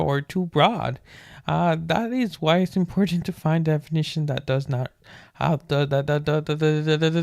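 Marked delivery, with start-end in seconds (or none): 5.7-7.2 repeating the the the; stuttering on the, the, the. Real, not acted. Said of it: "the insane stutter".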